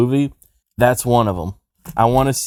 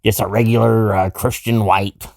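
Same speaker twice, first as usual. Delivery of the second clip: slightly lowered, halting white-guy put-on; dorky white voice; 2 semitones lower than usual. Posing as a regular white guy in the club, dorky white voice. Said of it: "you sound like a dorkier version".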